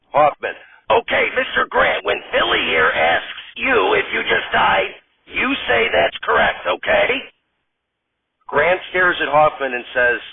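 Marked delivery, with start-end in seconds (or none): 0.9-7.3 much higher, whiny director voice; fussy director. Acted. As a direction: play a fed-up, high-pitched director. Director coaxes Grant.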